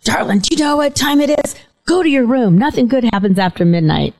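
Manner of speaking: high, scolding father voice at midnight; stern dad. Retold or imitated. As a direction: play the dad tapping his watch.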